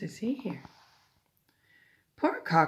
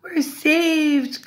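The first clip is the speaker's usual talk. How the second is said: high, loud excited cheer; clucking chickens rejoicing; 9 semitones higher, 11 dB louder than usual. A narrator's reading. Chickens saved from the fox, clucking excitedly. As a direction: cheer it out in relief. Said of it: "clucked the chickens".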